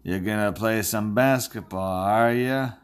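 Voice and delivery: lightly voiced drawling cowboy; a rough attempt at a movie cowboy drawl; John Wayne. Bracket picker joking about Duke, hint of cowboy impression. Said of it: "That was my John Wayne impression".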